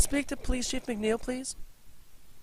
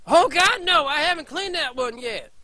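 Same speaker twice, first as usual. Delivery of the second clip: panicked cry; 5 semitones higher, 7 dB louder than usual. Acted. Janitor panics as attacked.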